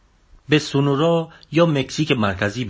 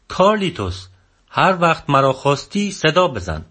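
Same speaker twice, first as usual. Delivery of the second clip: Don Genaro shouting; 3 semitones higher than usual. Acted. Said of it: "دونخنارو داد زد".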